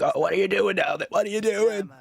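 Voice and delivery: shrill-free but high and pestering; nagging parent. Retold or imitated. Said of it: "And they're like".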